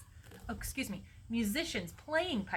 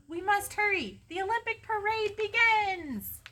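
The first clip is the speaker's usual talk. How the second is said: high, ringing herald's call; excited, raised-voice proclamation; urgent announcement; 12 semitones higher, 5 dB louder than usual. A narrator's reading. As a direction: proclaim it over a crowd. Character heralds start of parade.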